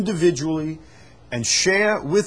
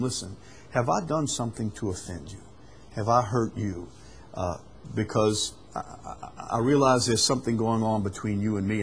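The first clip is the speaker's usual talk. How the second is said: softer, humble asking of forgiveness; sincere apology; 3 semitones lower, 3 dB quieter than usual. Acted. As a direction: apologize gently, heart open. Voices a humble apology to someone.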